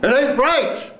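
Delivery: very high, slow cry; full-out acted line. Actor ending the first scene, high drawn-out cry. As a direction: throw it up high and hold it.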